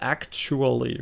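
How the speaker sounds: "actually" drawn out slowly at the middle syllable; sounded-out middle. Shown as a demonstration. Streamer checking which part is off, "actually" slowly sounded out. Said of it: "The ch part".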